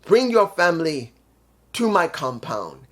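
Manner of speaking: mock-dramatic wrestling promo, slowed in places; a hint of Matt Hardy's theatrical promo voice; imitating Matt Hardy. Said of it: "And Matt says".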